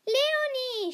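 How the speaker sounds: high, loud delighted call; boisterous greeting. A narrator's reading. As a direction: cry out the friend's name in joy. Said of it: "stürmisch umarmte Hannah ihre Freundin".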